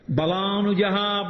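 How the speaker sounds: drawn-out Sanskrit reply; slow verse recitation. Retold or imitated. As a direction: say it slowly, syllable by syllable. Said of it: "అన్నాడు". (నెమ్మదిగా సాగదీసి)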